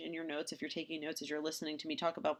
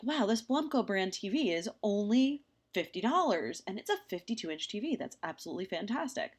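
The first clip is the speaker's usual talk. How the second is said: excited shopper; 4 semitones higher than usual. Retold or imitated. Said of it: "And you're like".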